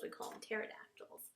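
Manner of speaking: pterodactyls whispered, P not sounded; soft, silent P. Shown as a demonstration. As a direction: drop the P in pterodactyls and hush it. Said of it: "that P is silent".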